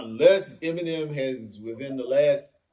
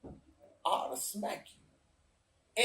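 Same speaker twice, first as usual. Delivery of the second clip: mock threat; 5 semitones higher, 11 dB quieter, slower than usual. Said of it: "Seinfeld is looking at the dude like".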